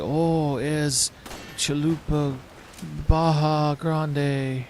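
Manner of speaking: slow, hammed-up mock Spanish accent. Villagers babbling at the player in mock Spanish accent. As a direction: drawl it in a cartoon Spanish accent. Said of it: "generic Spanish".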